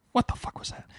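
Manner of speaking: stunned near-whisper, retold; hushed shock. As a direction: say it under your breath, aghast at yourself. Retold shock right after the punch.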